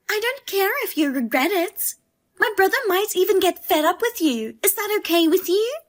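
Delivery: put-on sister-in-law goading her about having kids; nagging taunt. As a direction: rub it in about her age. Sister-in-law needling about children.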